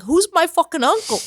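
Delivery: lightly imitated Queens Italian tough guy; put-on Queens Italian protest; Joey's Queens Italian accent. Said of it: "quintessential Queens Italian accent".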